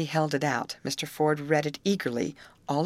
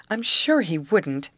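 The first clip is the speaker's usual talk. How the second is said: eager and slow, pitched up and louder; 6 semitones higher, 6 dB louder, slower than usual. A narrator's reading. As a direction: reassure him with eagerness. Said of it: "declared Grace eagerly".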